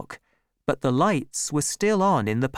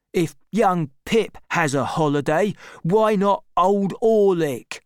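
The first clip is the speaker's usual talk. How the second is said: grumbling Orlick; 6 semitones higher, 4 dB louder than usual. A narrator's reading. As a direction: push back, sulky and aggrieved. Orlick's voice in story.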